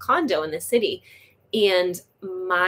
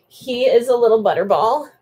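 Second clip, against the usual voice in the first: excited gush; 4 semitones higher, 9 dB louder than usual. Real, not acted. Showing off kitten.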